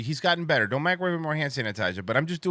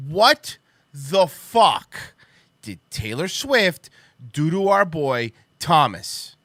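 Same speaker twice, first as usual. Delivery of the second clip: angry; 2 semitones higher, 4 dB louder, slower than usual. Real, not acted. Outraged rant continues.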